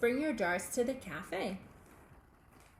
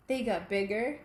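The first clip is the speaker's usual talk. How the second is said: each bigger louder than the last; building bigger and bigger; 2 semitones lower, 5 dB louder than usual. A narrator's reading. Reading to children about growing caterpillars, building louder.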